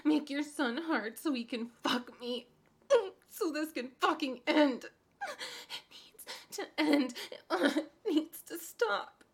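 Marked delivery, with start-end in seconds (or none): 4.9-9.2 slow teary begging; slow, broken crying plea. Acted. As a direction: plead slowly through tears. Desperate plea.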